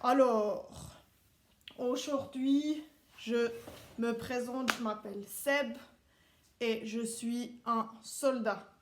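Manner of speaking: a hint of a strict army instructor addressing recruits; Swiss soldier teacher. Seb as a Swiss soldier teaching the kids, lightly stern.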